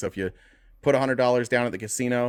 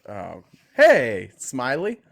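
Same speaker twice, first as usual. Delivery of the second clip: excited; 2 semitones higher, 6 dB louder, much slower than usual. Real, not acted. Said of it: "I had so much energy with".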